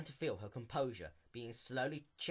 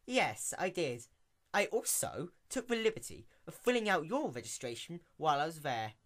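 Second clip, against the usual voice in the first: sly; 5 semitones higher, 3 dB louder than usual. Acted. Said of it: "as a sly grin slowly revealed itself".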